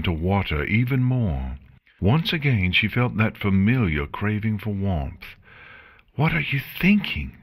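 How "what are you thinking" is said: high, sharp self-rebuke; yelled to herself. A narrator's reading. Chrysalis yelling at herself over Celestia, sharp. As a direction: yell at your own weakness. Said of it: "she yelled to herself".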